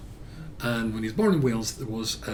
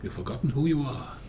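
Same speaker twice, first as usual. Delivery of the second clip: ringing, raised speech to a crowd; impassioned oration; 3 semitones higher, 6 dB louder than usual. Retold or imitated. Old lord addressing a Jewish audience, impassioned oration. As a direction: build loudly to the key images, then drop for the close.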